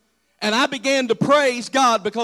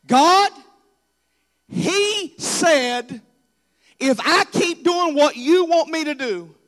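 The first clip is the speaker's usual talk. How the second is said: panicked cry, higher and louder; a desperate, raised complaint to God; frantic plea; 7 semitones higher, 4 dB louder, slower than usual. Retold or imitated. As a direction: plead with heaven in a panic.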